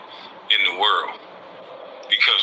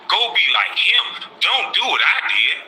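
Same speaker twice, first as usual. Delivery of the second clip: humble advice voice; 6 semitones higher than usual. Retold or imitated. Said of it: "would be saying".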